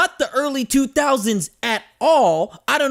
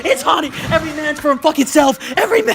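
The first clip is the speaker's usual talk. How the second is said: mock panic laughing. Pretend Blair Witch panic, laughing.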